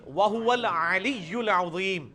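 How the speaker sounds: الْعَلِيُّ الْعَظِيمُ with throaty ain and heavy ظ; measured Quranic pronunciation, ع from the throat in الْعَلِيُّ; careful Arabic articulation. Shown as a demonstration. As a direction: recite as a tajweed teacher demonstrating ain. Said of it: "یا فرق دے نا".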